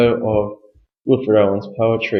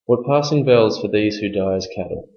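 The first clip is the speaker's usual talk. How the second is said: poem reading. Shown as a demonstration. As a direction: read it as a mournful recital. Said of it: "here's the reading for you".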